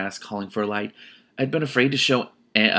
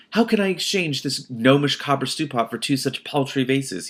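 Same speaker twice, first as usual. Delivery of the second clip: trader's grumble; 4 semitones higher than usual. Retold or imitated. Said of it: "he'd say".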